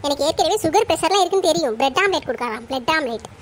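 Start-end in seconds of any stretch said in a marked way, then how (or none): 1.8-2.6 lower, sneering repeat of bread omelette; mock her offer with disgust; scornful mimicry. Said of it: "என்னது, bread ஆம்லெட்டா?". 2.7-3.3 scornful mutter. Acted. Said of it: "என்னது, bread ஆம்லெட்டா?".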